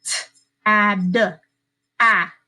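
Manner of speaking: "T-, ad, ah" as separate sounds: t, ad, then short a alone; "T-, ad, ah", each sound isolated by a pause. Shown as a demonstration. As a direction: sound out "T-, ad, ah" piece by piece. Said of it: "we need to code each side".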